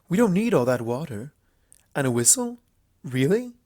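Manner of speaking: a royal doubting all the baggage; Luna voice. Acted. Luna questioning Applejack's packing, lightly incredulous.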